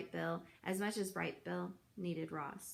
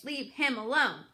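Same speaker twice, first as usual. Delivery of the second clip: put-on louder, fierce old goose warning; fierce scolding; 3 semitones higher, 5 dB louder than usual. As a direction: scold the fish, protective and loud. Goose attacks the fish.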